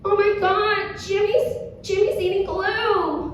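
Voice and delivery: high-pitched panicky mom impression; mock alarmed mom. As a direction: imitate a mother raising the alarm. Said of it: "mom goes".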